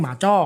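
"หมาจ้อ" as locals say it; local home pronunciation. Shown as a demonstration. Expert comparing dialects, giving the local form "หมาจ้อ". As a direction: say "หมาจ้อ" with an open "o" in the last syllable. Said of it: "ถ้าบ้านเราเรียก".

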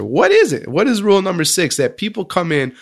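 a touch of disbelief at the calm exits; lightly hammed-up wonder; amazed question. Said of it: "he asks the prime minister".

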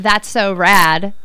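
drawn-out Californian surfer talk; light Californian accent. Acted. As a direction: say it slowly like a laid-back Californian.

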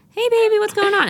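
very high sing-song pet voice; talking to the cat. Retold or imitated. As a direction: coo at the cat like a baby. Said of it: "And then I'm like".

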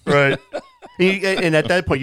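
talking through laughter; laughing. Real, not acted. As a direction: laugh while starting the sentence. Laughing at the story.

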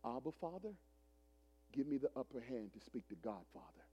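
hushed, pleading prayer; praying in the Spirit. Retold or imitated. Pastor praying inwardly before facing Godfather, hushed and reverent. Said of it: "In the spirit, I said".

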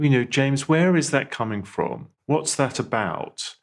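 lifted, gentle self-question, as if to a friend. Shown as a demonstration. Host shows how to question yourself, gently. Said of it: "But in gentle ways".

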